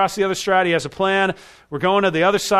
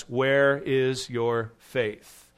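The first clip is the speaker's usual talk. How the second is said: gentle rebuke; 3 semitones lower, much slower than usual. Acted. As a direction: ask it slowly, like a tender reproach. Jesus's question, drawn out slowly.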